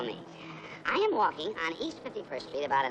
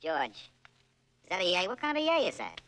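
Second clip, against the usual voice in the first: mock disappointed. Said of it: "you give me a death rattle".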